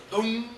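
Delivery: imitated string note. Shown as a demonstration. Imitates the open sixth string.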